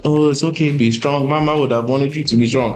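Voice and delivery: sing-song mock sympathy; mock consoler. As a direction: imitate the relatives patting him at the funeral. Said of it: "coming up to me".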